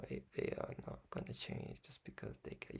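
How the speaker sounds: whispered aside; a playful whispered repeat. Acted. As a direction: breathe the line like a secret. Same line repeated whispered.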